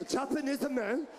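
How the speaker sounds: mock Japanese accent pushed from the diaphragm; hammed-up Japanese-accented male voice; Japanese man accent. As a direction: imitate a Japanese man, belly-driven. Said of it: "it come from diaphragm".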